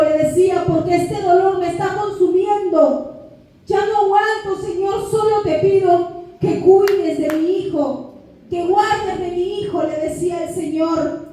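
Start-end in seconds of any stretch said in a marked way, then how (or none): 0.7-9.8 higher, strained pleading prayer; mildly anguished retold prayer; retold tearful plea. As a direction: beg God as if worn out by pain. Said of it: "Yo recuerdo llorando esa madrugada".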